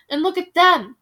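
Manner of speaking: loud, mocking point-out; scornful shout. Bald veteran mocking the young prince and princess, loud scorn. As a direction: sneer at the children.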